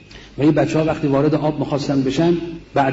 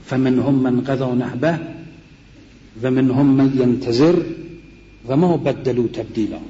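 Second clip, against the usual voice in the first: slow, measured recitation of a verse; slow Koranic recitation; Quran recitation; slower than usual. Retold or imitated. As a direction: recite the verse slowly and solemnly.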